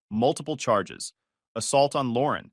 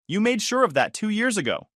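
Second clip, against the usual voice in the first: high, cutting reply; cold retort; 9 semitones higher than usual. Acted. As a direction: throw it back at her. Groom firmly rejecting ex.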